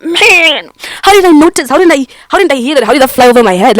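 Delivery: mock exasperation. Acts out dawning realisation of betrayal.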